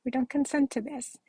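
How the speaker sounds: choked-up rising upset. Real, not acted. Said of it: "Sorry, I'm so emotional".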